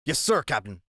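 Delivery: small, submissive voice; subdued, obedient reply; meek answer. A narrator's reading. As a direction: give in to a superior officer. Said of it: "A voice answered meekly".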